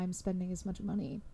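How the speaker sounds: rough croak from a throat catch; something stuck in the throat; croaky throat catch. Real, not acted. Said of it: "sounded like a demon. I just got something in my throat".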